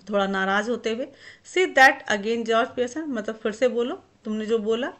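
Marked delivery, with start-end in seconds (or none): 1.5-3.0 loud, sharp dare to repeat it; a mock-angry bark, daring him; savage challenge. Wife daring her husband to repeat it, loud and savage. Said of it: "starting up savagely".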